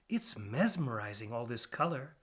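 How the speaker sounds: soft, dazzled pack rat voice; hushed little rat. Acted. DJ stares at the glaring red light, softly awed. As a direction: breathe it out, spellbound.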